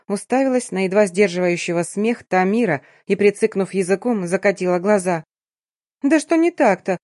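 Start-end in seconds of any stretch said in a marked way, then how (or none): 6.0-7.0 irritated squeak. A narrator's reading. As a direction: squeak it out in annoyance. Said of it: "пискнула раздражённо". (раздражённый писк, выше и громче)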